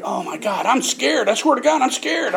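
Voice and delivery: high, pleading mock fear; mock scared whine. Young sailor facing prison, hammed-up scared whine. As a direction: whimper it like a scared kid.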